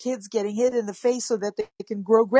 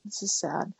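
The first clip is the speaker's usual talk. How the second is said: mirroring sadness. Acted. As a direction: hush down and share their sadness gently. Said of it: "a little bit of an actor".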